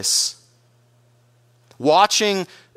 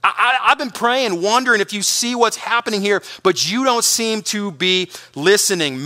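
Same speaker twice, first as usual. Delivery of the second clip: mildly desperate plea, slightly raised; desperate cry; 3 semitones higher than usual. Acted. Preacher as Habakkuk praying unheard to God, mildly desperate. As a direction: press the complaint with a touch of urgency. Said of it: "It's a desperate cry".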